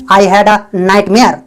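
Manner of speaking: very slow, word by word; slow, clear dictation; slow model sentence. Shown as a demonstration. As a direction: spell it out slowly for learners. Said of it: "आप बोल सकते हैं".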